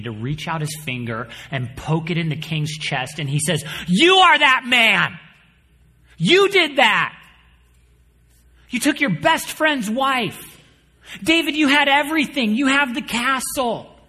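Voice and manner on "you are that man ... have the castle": stern accusation. Acted. Nathan confronting King David, loud and stern. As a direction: drive each word home like a pointed finger.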